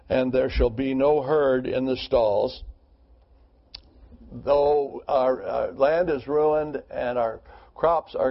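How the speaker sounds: scripture reading. Acted. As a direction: read the verses out to the group. Reads Habakkuk passage aloud.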